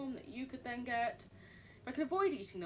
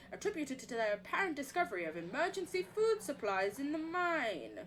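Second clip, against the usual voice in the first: document read-aloud. Acted. Reading the sanatorium report in a put-on American accent.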